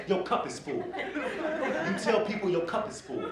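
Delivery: slow, calm repeat of the advice. Retold or imitated. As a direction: lay it out slowly and patiently.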